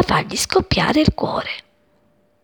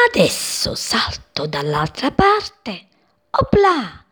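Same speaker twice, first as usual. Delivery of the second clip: chick voice; 3 semitones higher, slower than usual. Acted. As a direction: play the cheeky chick leaping over. Chick voiced in children's story.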